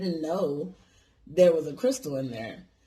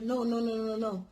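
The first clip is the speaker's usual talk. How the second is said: imitated Chinese accent; 5 semitones higher than usual. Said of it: "talking in fucking broken English".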